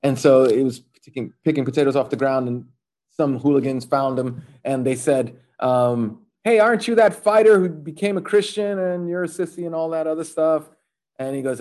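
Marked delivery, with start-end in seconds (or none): 6.4-10.7 higher-pitched mock hooligan taunt. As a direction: lightly play a heckling hooligan. Hooligans taunt the converted fighter.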